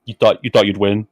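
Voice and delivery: lightly put-on game villain taunt; mock a stiff voice-acting line read; a hint of hammy character voice; Yozora. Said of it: "This is my Yozora voice".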